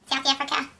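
rough attempt at a South African accent; lightly put-on South African vowels. Shown as a demonstration. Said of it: "South African accent".

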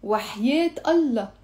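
firm sworn promise on Allah, falling; sincere oath. Shown as a demonstration. Teacher to students, an earnest oath. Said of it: "Look how I'm saying it".

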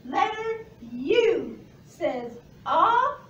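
ah said slowly as short u in umbrella; short u sound. Shown as a demonstration. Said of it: "And the last one?".

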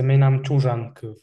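Menam tujan kyv said clearly as a model; Komi model. Shown as a demonstration. Native speaker models the Komi phrase. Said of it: "also you can say".

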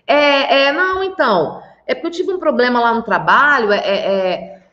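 mock flustered answer with repeated fillers; evasive liar. Wife explains her lateness to husband, evasive and stumbling. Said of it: "tá vendo como eu mudei de padrão aqui?".

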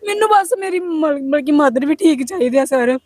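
tearful plea starting high, then sinking; crying, pleading for mother's health; real crying. Real, not acted. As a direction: beg through tears. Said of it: "ਚੱਲ ਤੂੰ ਰੋ ਨਾ".

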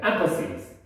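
emphasis with the beat on EM; stress on first syllable. Shown as a demonstration. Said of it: "강세가 앞에 있어요".

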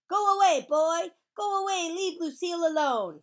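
full, high-pitched shout; loud, high, commanding yell. Acted. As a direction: shout to drive someone off. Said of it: "she shouted".

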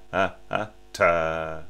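"ha, ha" then a hard tongued "ta"; contrasting tongued articulation; tongued accent. Shown as a demonstration. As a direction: end on a crisp tongue stop "ta". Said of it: "it's not the same as".

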